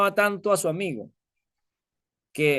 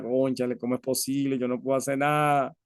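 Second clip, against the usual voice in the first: despairing judge; 3 semitones lower, 4 dB quieter than usual. Acted. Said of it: "y empezó a llorar".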